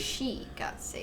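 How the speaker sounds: soft, slow whisper. Pretend. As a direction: breathe the words out, unvoiced. Repeated line, whispered.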